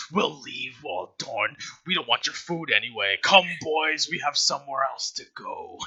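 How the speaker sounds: a hint of a sleazy fat patron; lightly voiced leering old soldier; lecherous fat guy. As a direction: GM voicing a lecherous fat patron to the player's character. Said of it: "It's the voice".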